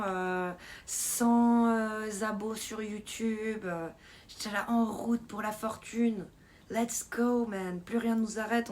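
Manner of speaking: drawn-out mock congratulations; message de félicitations imité. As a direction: hype up the milestone, stretching the words. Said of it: "un monstre message". (félicitations exagérées, en traînant)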